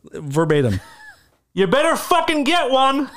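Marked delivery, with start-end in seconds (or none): 1.5-3.1 high, loud, slow holler; re-enacted angry shout with drawn-out words; retold yelling back. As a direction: yell it back as an order. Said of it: "And I yelled back".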